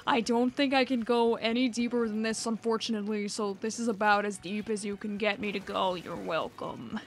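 dropping deep to the bottom of the range; extremely deep bass voice. Shown as a demonstration. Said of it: "What is the deepest voice you can do?".

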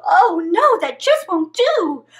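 loud high "oh no"; dismayed witch. Acted. Witch dismayed at the frog's meow, loud. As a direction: gasp it out in dismay.

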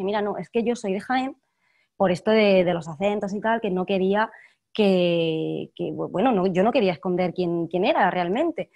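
careful Castilian Spanish with final s sounded; neutral Castilian accent. Shown as a demonstration. Actress shows the host her trained accent, neutral Castilian. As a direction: drop the Andalusian for neutral Castilian. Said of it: "te voy a hablar con el castellano neutro".

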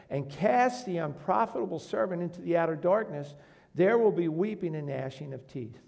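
firm, declaiming Bible reading; scripture reading. Acted. Preacher reading the parable's verdict to the church, declaiming. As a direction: read the verdict like a sermon text. Reads the master's verdict aloud.

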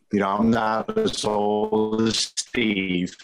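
dragging, slowed-down robotic glitchy audio; words smeared by a lagging connection. Real, not acted. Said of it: "You still sound like a drunk robot".

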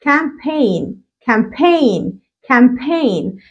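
"campaign" said kampen, no g; silent g demo. Shown as a demonstration. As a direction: drop the g in "campaign". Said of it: "وكلمة زي كلمة حملة". ("campaign" من غير نطق ال G)

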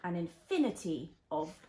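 gentle storybook reading; reading to a toddler. Acted. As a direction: read it like a bedtime story.

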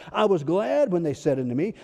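"glad" stretched and lifted in the verse; stress on GLAD. Real, not acted. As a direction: lean long on "glad" while reading scripture. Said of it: "We're emphasizing the word glad here".

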